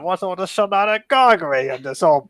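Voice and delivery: loud Cockney bobby; the baron as a London policeman, calling out loudly in Cockney; Cockney copper. Acted. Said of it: "I'm Cockney".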